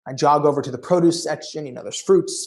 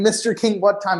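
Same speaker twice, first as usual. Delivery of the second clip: mild mock yell; 6 semitones higher than usual.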